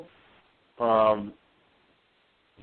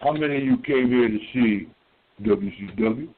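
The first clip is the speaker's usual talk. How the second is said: wrestling promo call. Pretend. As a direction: work the crowd like a wrestling promoter. Hyping crowd like wrestling promo.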